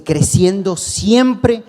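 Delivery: quoting the verse again to the church, slow and emphatic; slow emphatic reading. Real, not acted. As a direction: stretch it out so they remember.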